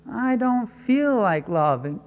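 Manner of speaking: imitating a reluctant husband, pitch up and slow; mock whiny excuse. Preacher mocks a husband who won't love, whiny. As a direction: whine it like a listener dodging the command.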